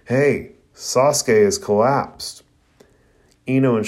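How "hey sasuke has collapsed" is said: slow, drawn-out call to squad mates; a restrained holler down to the team; mild holler. Acted. Choji calls down to his squad mates, mildly hollering. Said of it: "he hollers down to the rest".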